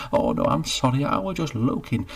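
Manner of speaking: flustered apology. Acted. Geoffrey apologises.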